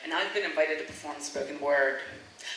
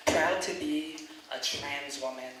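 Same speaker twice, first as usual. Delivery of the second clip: moved and slow; 4 semitones lower, 5 dB quieter, slower than usual. Real, not acted. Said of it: "her words were so moving".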